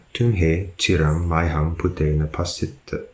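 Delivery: slow, careful recitation of the Pali line; slow Pali sentence read for students; reading the Pali sentence aloud. Shown as a demonstration. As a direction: read it slowly and deliberately, like a lesson text. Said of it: "number twelve".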